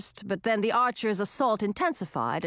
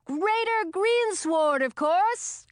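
put-on young witch voice; 9 semitones higher, slower than usual. A narrator's reading. Young witch Chlorine speaking.

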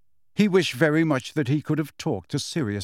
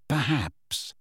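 Snape voice; 3 dB quieter than usual. A narrator's reading.

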